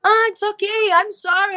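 imitating a flustered apology, pitched high; startled stranger. Startled stranger apologizing to her in the restroom, mock flustered. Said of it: "Aí a pessoa meio que fica assustada assim".

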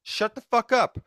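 mock angry rant. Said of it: "that was my little piece".

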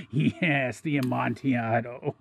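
agree, then break into helpless laughter; strained laughter. A narrator's reading. Trapped man echoes his captor about the Amontillado, laughing weakly.

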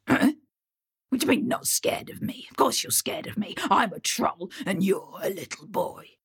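whispery, disbelieving troll; a hint of a mocking troll; scoffing troll. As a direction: sneer at the tiny boy in a troll voice.

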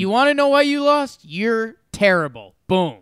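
loud, high scolding; angry coach telling the boxer off; coach yelling. Retold or imitated. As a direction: bark it at the losing boxer.

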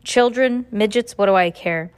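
loud, muffled gruff shout; muffled foreman voice. Acted. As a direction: bark it through a covered mouth. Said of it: "Foreman Flacutano said in his muffled voice".

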